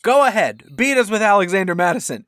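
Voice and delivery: high, loud daring tone; mock defiant taunt. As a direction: dare them to try. Mock coach's defiant plan.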